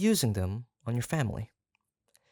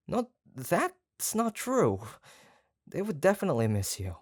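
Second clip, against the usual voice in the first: insistent protest; 8 semitones higher than usual. Acted. Eager protest, pitch jumps high.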